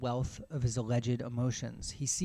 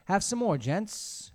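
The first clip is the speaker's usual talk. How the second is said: raised, higher friendly offer; 5 semitones higher, 4 dB louder, slower than usual. Acted. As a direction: offer seconds heartily. Soup man offering more.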